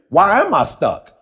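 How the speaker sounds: slow, searching inner question; slow, wondering question to yourself; slow self-question. Shown as a demonstration. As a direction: ask it slowly, as if to yourself. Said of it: "you gotta ask yourself".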